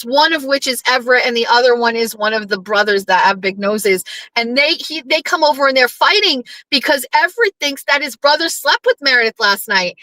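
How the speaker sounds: usual speaking voice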